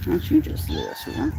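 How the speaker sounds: high sweet cooing; high pet voice. Real, not acted. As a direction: coo at the kitty. Baby talk to a cat.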